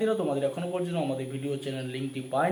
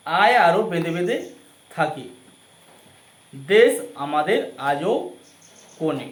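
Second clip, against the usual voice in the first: dictating; 7 dB louder, slower than usual. Shown as a demonstration. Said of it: "আমরা আরো বলছি".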